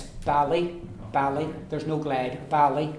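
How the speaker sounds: bally with no glide between B and A. Shown as a demonstration. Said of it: "There's no glide between the B and the A".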